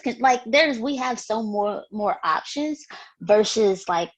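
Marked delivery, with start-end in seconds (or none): 3.9-4.1 whispered. Real, not acted. Trailing whisper.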